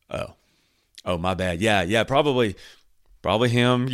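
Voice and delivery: sheepish backtrack. Acted. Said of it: "imagine that person's going".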